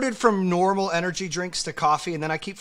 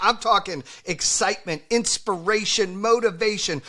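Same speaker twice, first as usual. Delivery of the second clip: loud, high, pumped-up host hype; hyped-up energy; 4 semitones higher, 5 dB louder than usual. Real, not acted. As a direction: sell it like an energy drink ad. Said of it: "your energy drink or whatever you're on".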